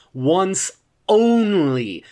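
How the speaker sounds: ONCE and ONLY each drawn out slowly; emphatic insistence. Acted. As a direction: stretch both words of ONCE ONLY, laying down terms. Laying down non-negotiable terms.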